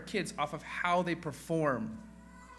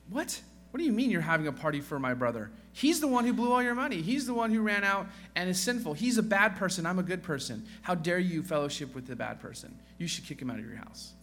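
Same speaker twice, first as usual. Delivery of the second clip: put-on indignant older son; 2 semitones higher than usual. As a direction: play the jealous brother crying foul. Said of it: "The son is saying".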